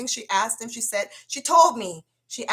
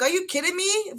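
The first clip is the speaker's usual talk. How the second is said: high and incredulous; pitched way up in disbelief; retold shock; 10 semitones higher than usual. Telling his brother about the condom, shocked disbelief.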